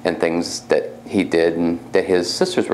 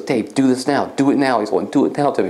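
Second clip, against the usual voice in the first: insistent, higher-pitched retold command; urgent prodding; 5 semitones higher than usual. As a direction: lightly imitate someone urging you on. Urging spirit voice retold.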